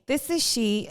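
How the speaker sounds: posh voice. Retold or imitated. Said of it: "Put the posh voice on".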